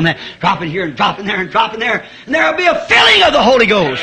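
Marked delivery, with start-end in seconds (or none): 2.3-4.0 preaching shout. Acted. Preaching climax.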